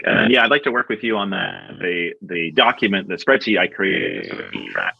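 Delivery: hoarse catch in the throat; frog in throat. Real, not acted. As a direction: talk with a frog in your throat. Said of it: "you got a frog in your throat".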